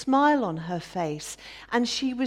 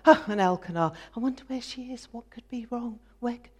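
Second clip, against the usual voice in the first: a hint of mock fretting husband voice; mocking worried husband; much faster than usual. Rival wife mimicking husband fretting over Hannah, mild mockery. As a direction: lightly parody his worry. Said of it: "always worrying about her".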